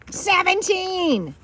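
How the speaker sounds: high, slow drawn-out exclamation; can't believe the number; amazed. Real, not acted. Amazed at dog's age.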